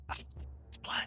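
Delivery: put-on whisper. Game master voices what players hear on the wind: Caligar's whisper on the wind. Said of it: "You hear a whisper on the wind".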